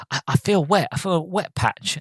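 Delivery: high-pitched, lightly acted druggy complaint; Steve. Steve high on mushrooms telling mates, druggy complaint. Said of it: "he's high off his tits on".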